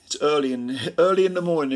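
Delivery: talking through a yawn; words stretched by a yawn. Real, not acted. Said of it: "So if I'm yawning".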